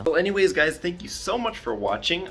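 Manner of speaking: breathless after climbing stairs; panting from the stairs; out of breath. Real, not acted. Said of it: "I'm out of breath walking up those stairs".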